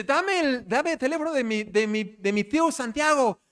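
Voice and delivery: can't wait to tell his uncle; eager son. Retold or imitated. Son urging his dad for his uncle's number, eager.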